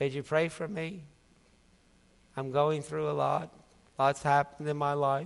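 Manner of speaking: put-on hushed, low, soft monotone with no enthusiasm. Mimicking people who ask for prayer with no enthusiasm, imitating a flat, unenthused request. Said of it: "there's no enthusiasm in that".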